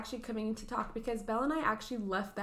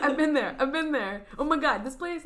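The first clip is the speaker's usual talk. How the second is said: annoying voice; 4 semitones higher, 9 dB louder than usual. Retold or imitated. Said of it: "I sounded super annoying".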